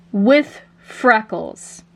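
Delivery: smiling. Acted. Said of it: "Liza smiles and she says".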